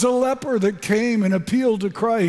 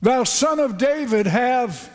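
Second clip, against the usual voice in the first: high, slow pleading cry; a lightly voiced beggar pleading; crying out for mercy; 3 semitones higher, slower than usual. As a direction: beg like a blind beggar calling out. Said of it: "what he cried out was".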